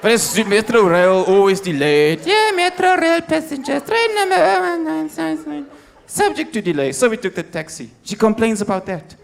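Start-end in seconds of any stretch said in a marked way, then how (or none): 2.2-6.9 station announcement. Pretend. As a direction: read it like a crackly station tannoy. Mock train announcement.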